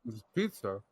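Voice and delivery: talking through a mouthful; mouth full. Real, not acted. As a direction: say it round a bite of food. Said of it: "stop fucking chewing".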